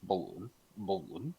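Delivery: mild Bolton accent demo. Shown as a demonstration. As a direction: say it as a Bolton local would, questioning. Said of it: "I hate Bolton accent".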